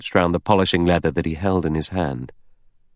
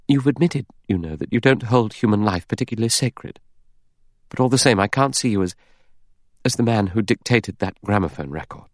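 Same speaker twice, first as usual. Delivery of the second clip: higher-pitched, lightly voiced woman character; a light, higher voice for the heroine; Vera; 4 semitones higher than usual. Vera challenging Lombard over human life, in a lightly raised voice.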